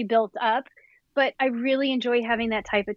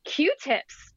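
excited discovery, higher pitch; imitated excitement; 5 semitones higher than usual. Retelling a partner's discovery to listeners, mildly excited. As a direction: imitate someone thrilled by a find. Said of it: "it was very exciting".

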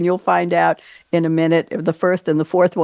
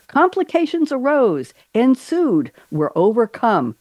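higher pirate captain, falling phrase by phrase; amateur Jack Sparrow; 6 semitones higher, slower than usual. Acted. Host reading guest's chosen quote, amateur pirate captain impression. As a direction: deliver it as a theatrical, not very convincing captain. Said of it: "I don't do a good Johnny Depp either".

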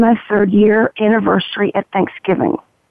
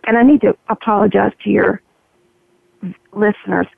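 gravelly voice. Real, not acted. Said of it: "If you're hearing a gravelly voice".

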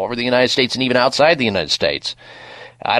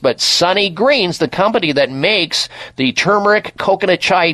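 ad read; 3 semitones higher than usual. Acted. Radio product plug.

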